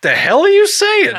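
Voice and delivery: mock outrage. Reacting to co-host saying error. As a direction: pretend shock at the word.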